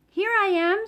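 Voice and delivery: high squeaky little voice; squeaky Roo. A narrator's reading. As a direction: squeak it like a tiny joey. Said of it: "squeaked Roo".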